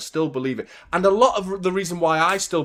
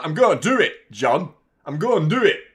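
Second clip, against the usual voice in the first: louder, playful mock Pep reply; imitating Pep; 4 semitones higher, 7 dB louder than usual. Pep answering the fan, lightly voiced mock reply. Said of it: "and Pep was like".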